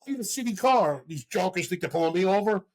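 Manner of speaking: confused dad refusing cops; defiant dad. Retold or imitated. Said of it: "He's like".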